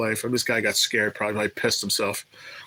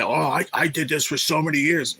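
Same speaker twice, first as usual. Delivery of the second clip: higher, pleading know-it-all voice; mock whiny old-timer; 5 semitones higher than usual. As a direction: imitate someone bragging about his years. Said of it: "I used to say".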